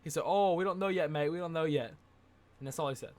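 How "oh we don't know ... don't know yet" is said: amateur Australian impression; Australian accent. Fighter telling a fan it's not known yet, imitated Australian accent. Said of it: "try to do an Australian accent".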